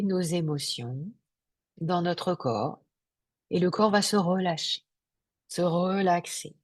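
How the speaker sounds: unhurried meditation guide with long pauses; guided meditation. Real, not acted. Yoga teacher guiding listeners into Yoga Nidra, guided meditation. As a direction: lead them gently into relaxation, phrase by phrase.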